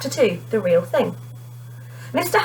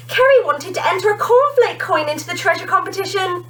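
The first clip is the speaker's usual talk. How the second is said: smirking; 10 semitones higher than usual. A narrator's reading. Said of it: "Matt smirked".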